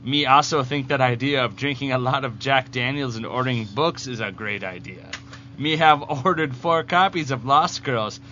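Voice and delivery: lightly voiced backwards comic-book villain; lightly put-on simpleton reading a letter out; Bizarro voice. Host reading contest entry as Bizarro, lightly voiced. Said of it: "do this in the voice of Bizarro".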